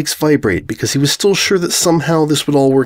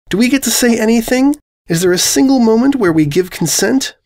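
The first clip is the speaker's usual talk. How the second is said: higher, lightly voiced indignant question; pressing winged mare; 11 semitones higher than usual. Winged mare asking the invader, high and pressing. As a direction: push for an answer.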